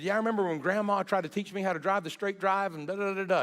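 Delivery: lightly voicing a laughing grandchild; cheerful retold memory. Grandchildren sharing fond memories.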